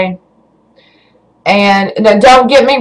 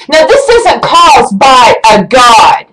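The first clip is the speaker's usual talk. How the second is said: slow, emphatic indignant protest; angry insistence; slower than usual. Real, not acted. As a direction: insist angrily, dragging each word. Angry rant defending God, emphatic.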